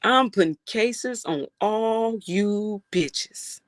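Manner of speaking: slow, drawn-out Denzel delivery; lightly voiced Denzel, each word stretched. Streamer repeating the Denzel line to chat, slow and drawn out. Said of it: "in my Denzel voice".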